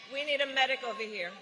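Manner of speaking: urgent quick call over the crowd; calling out for help. Real, not acted. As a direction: call out fast for a medic. Calling for a medic again.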